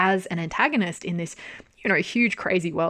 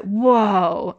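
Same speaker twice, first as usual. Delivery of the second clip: stunned whoa; 3 semitones higher, 7 dB louder than usual. Real, not acted. Reacting to Johan's manipulation.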